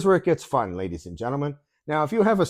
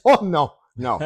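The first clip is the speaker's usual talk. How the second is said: louder, laughing mock refusal; imitated laughing denial; 5 dB louder than usual. Call-centre man answers worried customer, imitated laughing denial. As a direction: laugh through the clerk's answer. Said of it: "He's laughing".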